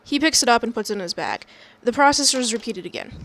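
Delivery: brisk read-aloud narration; stage-direction reading. A narrator's reading. Reader describing the repeated coin toss, brisk narration. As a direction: read it out quickly as from a script.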